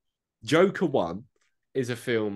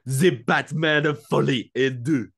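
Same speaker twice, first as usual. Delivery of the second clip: mock movie trailer voice; 4 semitones higher, 7 dB louder, slower than usual. Joke title announced.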